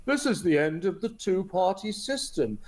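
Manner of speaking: lightly voiced smug pundit line; mock broadcaster pundit. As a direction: parrot the pundits with a touch of mockery. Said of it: "how are they interpreting it on the B B C".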